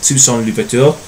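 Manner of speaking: Toussaint Louverture said the French way, lightly; a teacher's best try at French for Toussaint Louverture; French pronunciation. Shown as a demonstration. Teacher tries the French name for the class, light French accent. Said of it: "that's my best French accent, or pronunciation I should say".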